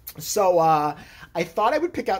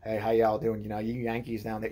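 put-on hillbilly accent; 6 semitones lower, 4 dB quieter than usual. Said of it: "talks like a hillbilly".

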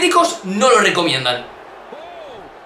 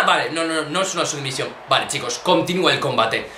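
relieved; 8 semitones lower, 6 dB quieter than usual. Real, not acted. Relieved it's not a submission.

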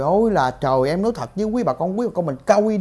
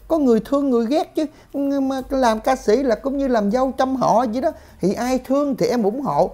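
lightly voiced singer making excuses, a bit higher; slightly raised mimicking voice, excusing oneself; imitated self-justifying singer; 4 semitones higher than usual. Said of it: "Nó nói á, là kiểu như em á".

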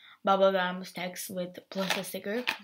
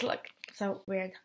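whispering; 6 dB quieter than usual. Real, not acted. Unvoiced whisper.

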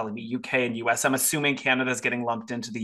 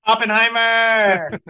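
high, loud, stretched-out cheer; belted slow victory shout; triumphant call; 7 semitones higher, 9 dB louder, slower than usual. Real, not acted. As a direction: announce the winner like a game-show host. Triumphant final Best Picture pick.

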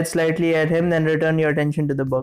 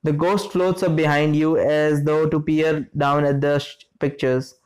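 tripping over words while reading; stuttering. Real, not acted. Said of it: "I'm just stuttering".

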